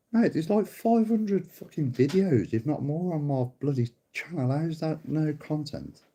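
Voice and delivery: can't believe the claim, stretch it out; incredulous rebuttal. Real, not acted.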